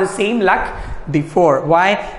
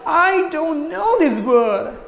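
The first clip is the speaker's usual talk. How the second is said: high, drawn-out elf cry; loud elf squeak; 9 semitones higher, slower than usual. A narrator's reading. Teacher showing how the elf squeaked, high and slow. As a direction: cry it out slowly, pitched way up. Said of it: "Said loudly".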